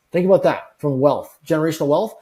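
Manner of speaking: ordinary talk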